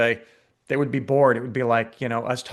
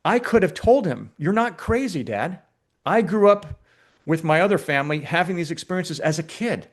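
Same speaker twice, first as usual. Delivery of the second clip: retold crying; 5 semitones higher than usual. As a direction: voice jumps high, half-crying the words. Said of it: "he burst out crying because he's like".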